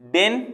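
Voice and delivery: डेन said alone, as the first piece of a word; डेन cut off by a pause; isolated syllable. Shown as a demonstration. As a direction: sound out डेन and stop. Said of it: "के बाद हल्का से रुक रहे हैं".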